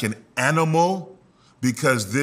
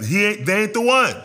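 casual God voice; 7 semitones higher, 3 dB louder, faster than usual. Acted. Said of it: "God was like".

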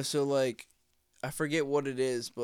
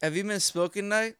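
higher, louder playful impression of Beetlejuice; imitating Beetlejuice interview; 6 semitones higher, 6 dB louder than usual. Podcaster acting Beetlejuice denying smoking weed, higher and playful. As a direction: ham up a dopey back-and-forth interview. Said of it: "I picture Beetlejuice just being like".

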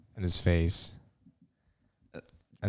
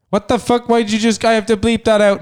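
shocked outburst; 12 semitones higher, 6 dB louder than usual. Real, not acted. Annoyed surprise at a slip.

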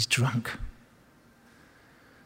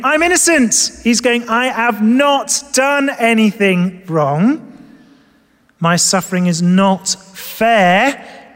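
Job protesting; 4 semitones higher, slower than usual. Retold or imitated. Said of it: "he's protesting. He's arguing".

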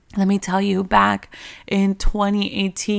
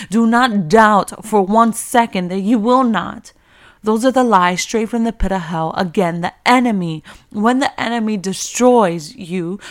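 rising preach; 4 dB louder than usual. Real, not acted. Sermon builds to a climax.

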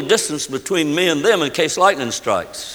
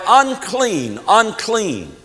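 leper's warning cry; 4 semitones higher, much slower than usual. Acted. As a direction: call it out as a mild warning. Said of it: "and cry".

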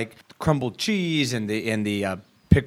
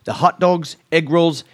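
funny voice; 4 semitones higher, 3 dB louder than usual. Acted. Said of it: "read 'em in a funny voice".

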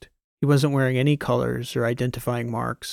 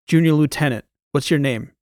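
a louder, brusque military demand; commanding demand; 2 semitones higher, 6 dB louder than usual. A narrator's reading. New commander questioning a junior lieutenant, commanding demand. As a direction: pull rank on a junior officer.

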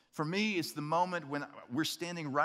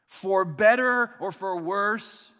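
saying wedding vows. Pretend. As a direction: recite vows with reverence. Officiant leads couple's vows.

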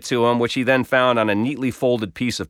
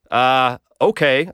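stammered; slower than usual. Retold or imitated. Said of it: "I stammered in response".

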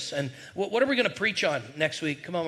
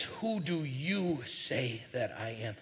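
slow and soft; 4 semitones lower, 6 dB quieter, much slower than usual. Shown as a demonstration. Preacher repeats Jesus' question.

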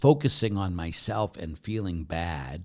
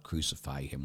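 whisper; 5 semitones lower, 6 dB quieter than usual. Acted. Crowd's cry, whispered.

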